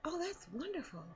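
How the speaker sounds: high, breathy, unenthused whisper; half-hearted praise, whispered; flat politeness. Retold or imitated. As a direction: fake enthusiasm under your breath. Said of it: "and they're".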